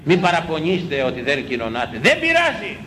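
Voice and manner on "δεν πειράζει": preaching exclamation. Real, not acted. Preaching emphasis.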